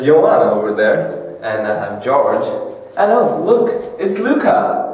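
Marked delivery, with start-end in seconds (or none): 3.0-4.9 surprised. Real, not acted. Spots friend arriving.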